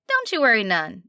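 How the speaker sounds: kindly nasal twang; a waitress soothing a stranded mother; light nasal twang, comforting; reassuring twang. Acted. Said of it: "slight twang to it".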